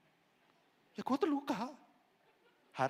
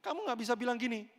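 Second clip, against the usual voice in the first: ordinary delivery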